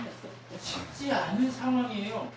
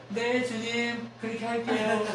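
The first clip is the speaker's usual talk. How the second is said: slow yes; 5 semitones higher, slower than usual. Shown as a demonstration. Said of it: "했으면".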